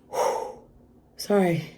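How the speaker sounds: heavy exhale, then a whispered apology; overcome, composing oneself. Real, not acted. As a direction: breathe out and whisper through tears. Composing herself while overcome.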